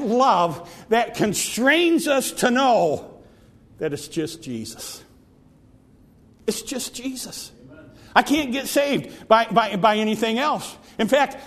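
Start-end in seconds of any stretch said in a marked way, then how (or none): 3.8-7.5 soft, low, intimate certainty; tender hush, almost confiding. Acted. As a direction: drop to a near hush on Jesus. Hushed conclusion.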